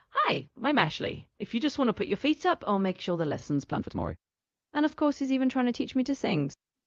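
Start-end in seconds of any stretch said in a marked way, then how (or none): 0.1-4.1 calm, relaxed, laid-back and easygoing delivery. Introducing themselves, the speaker shows a speaking style they were taught: calm and relaxed. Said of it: "how to be more calm and relaxed, like".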